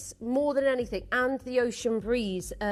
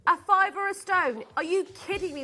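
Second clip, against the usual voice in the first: excited; 5 semitones higher, 5 dB louder than usual. Real, not acted. Host hyping very low price.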